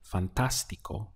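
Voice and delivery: "fantástico" with the stress on the accented "tás"; stress on second syllable. Shown as a demonstration. Teacher shows learners where the accent falls, "fantástico" stressed on "tás". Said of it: "the point where you have to stress".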